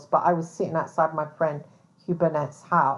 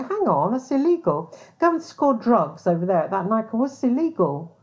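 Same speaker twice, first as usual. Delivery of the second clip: incredulous inner voice; 4 semitones higher than usual. Retold or imitated. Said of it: "and you think".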